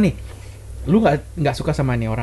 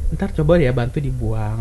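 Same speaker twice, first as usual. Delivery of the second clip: gentle request; 2 semitones lower, slower than usual. Shown as a demonstration. Asking a partner politely to clean up, gentle request. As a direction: ask nicely and slowly to throw it away. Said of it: "atau lu ngomong pelan gitu loh".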